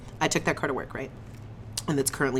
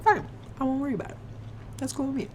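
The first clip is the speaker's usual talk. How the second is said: sarcastic; 11 semitones higher, much faster than usual. Retold or imitated. Sarcastic reply to operator.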